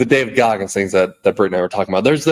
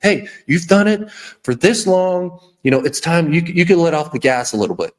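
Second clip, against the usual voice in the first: soothing bitch voice; 4 semitones higher than usual. Retold or imitated. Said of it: "to that bitch voice".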